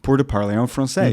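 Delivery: French with an English-sounding melody; anglicized French vowels; English accent. Shown as a demonstration. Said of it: "j'utilise les sons de l'anglais".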